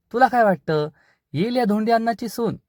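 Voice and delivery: aunt needles the crowd with a high mocking question; taunting aunt. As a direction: jeer at him in a high voice. Aunt taunts in front of villagers.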